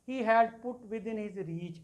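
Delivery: very slow, drawn-out reading of the verse; reading poetry aloud to a class; slow poem recital. Shown as a demonstration. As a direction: read it word by word, unhurried. Teacher reciting a poem line.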